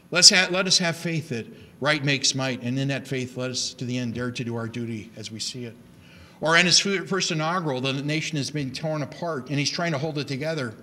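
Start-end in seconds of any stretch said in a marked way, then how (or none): 0.1-5.8 recitation. Shown as a demonstration. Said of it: "students practicing this and performing it".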